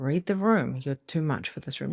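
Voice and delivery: ordinary talk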